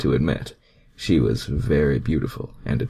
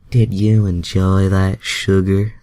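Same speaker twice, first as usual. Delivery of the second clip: Rogue's voice; 4 semitones higher, 7 dB louder than usual. Acted. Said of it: "Rogue asked".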